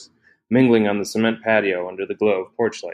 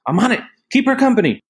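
much higher and louder, called over her shoulder; shouting back while running; 14 semitones higher, 4 dB louder, faster than usual. A narrator's reading. Ellie running for the garage, shouting back to Laura Jean. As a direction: yell it as you dash away.

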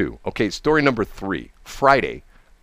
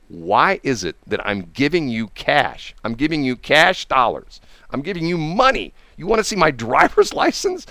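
retold incredulity; 3 semitones higher than usual. Retold incredulous argument with clerk.

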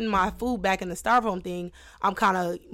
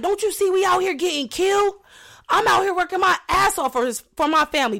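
mock chest-beating rant; 9 semitones higher than usual. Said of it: "He started hitting his chest".

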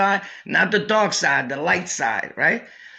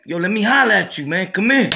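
fast, louder summons, pitched up; calling over; 3 semitones higher, 4 dB louder, faster than usual. Retold or imitated. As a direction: hurry him over with a loud call. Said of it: "he's like".

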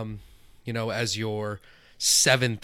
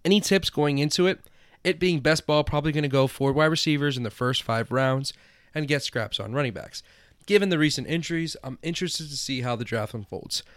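high, loud dopey stoner read; 4 semitones higher, 4 dB louder than usual. Acted. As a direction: ham up a spaced-out stoner. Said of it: "I'll do it in the, the stoner voice".

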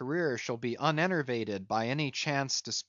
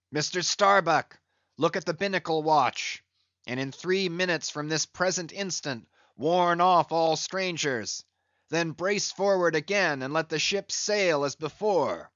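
shouted order; 4 semitones higher, 4 dB louder than usual. Acted. Ahab orders mate loudly.

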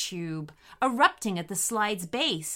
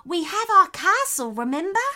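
high, louder, encouraging reminder; reassuring; 8 semitones higher, 6 dB louder than usual. A narrator's reading. Echidna reminding friends of their castle, reassuring. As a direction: remind them firmly in a high voice. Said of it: "reassured the echidna".

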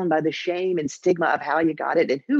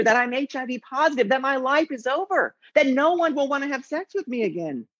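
higher-pitched, acted distress; retold tearful outburst; 6 semitones higher than usual. Confiding HIV diagnosis to a stranger in a bar, tearfully distraught. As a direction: pour out despair in a rising plea. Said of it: "In a flood of tears".

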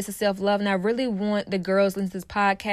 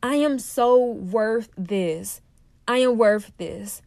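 slow self-affirmation; slower than usual. Retold or imitated. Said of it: "something I had to tell myself".

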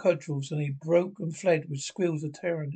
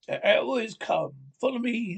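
raised, rallying call; rally the comrades to charge; battle cry; 6 semitones higher than usual. A narrator's reading.

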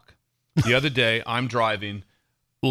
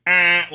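short mock horn blare; imitated horn honk; 5 semitones higher, 7 dB louder than usual. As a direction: lay on the horn with the voice. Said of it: "lay on the horn".

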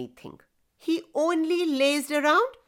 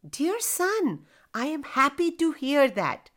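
elated father; 4 semitones higher than usual. Acted. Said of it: "feeling elated".

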